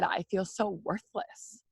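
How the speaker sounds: slow, quiet, choked words; holding back tears. Real, not acted. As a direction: say it softly as if about to cry. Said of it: "And I'm sorry if I cry".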